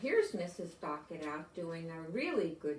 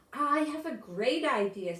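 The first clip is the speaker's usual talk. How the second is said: excited idea; 5 semitones higher, 7 dB louder than usual. Acted. Michael's eager suggestion.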